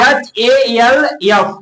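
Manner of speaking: letters called out slowly and loudly; slow loud spelling. Shown as a demonstration. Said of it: "क्या आता है?". (धीरे, ज़ोर से अक्षर बोलना)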